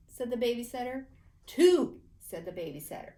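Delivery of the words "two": loud stern count. A narrator's reading. Babysitter counting Paxton down, loud and stern. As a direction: bark out the number.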